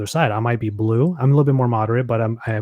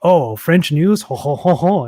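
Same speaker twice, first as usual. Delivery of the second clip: slow, higher, louder jolly mimicry of a man abroad; mock cheerful tourist; 4 semitones higher, 4 dB louder, slower than usual. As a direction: ham up a happy guy greeting French news. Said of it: "he's all like".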